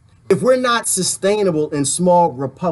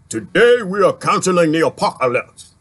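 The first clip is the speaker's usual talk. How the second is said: Idris Elba quote. Retold or imitated. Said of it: "One of his famous sayings".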